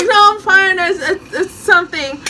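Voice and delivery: high, laughing fluster; embarrassed excuse to Nicholas; nervous laughing denial. Retold or imitated. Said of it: "and I'm like".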